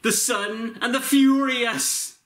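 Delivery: lightly voiced action star; Vin Diesel impression. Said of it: "my Vin Diesel impression".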